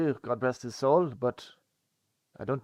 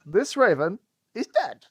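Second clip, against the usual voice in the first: laughing through it, slow; deadpan line broken by laughter; laughing parody; 8 semitones higher, 5 dB louder, slower than usual. Pretend. Player riffing on the dead bird, laughing.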